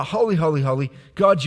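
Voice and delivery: Holy, holy, holy, God rising loud and full; fervent praise. Shown as a demonstration. Preacher proclaims the praise aloud to the church.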